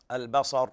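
البصر with a thick, heavy r at the stop; البصر ending on an emphatic r; heavy final ra. Shown as a demonstration. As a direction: darken the r that ends البصر. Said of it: "بالتفخيم".

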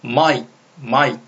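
마이크 as one syllable closed by k; k attached forward. Shown as a demonstration. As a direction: tuck the k of 마이크 onto the vowel before it. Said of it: "K를 앞으로 보내서".

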